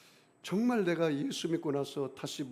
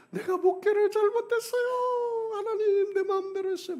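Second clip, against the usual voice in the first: sobbing confession; 8 dB louder than usual. Retold or imitated. Pastor reliving his repentance before God, high and sobbing.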